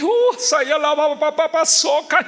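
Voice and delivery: high, ecstatic tongues; speaking in tongues. Retold or imitated. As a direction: let it burst out unbidden. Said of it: "y ya lo dije".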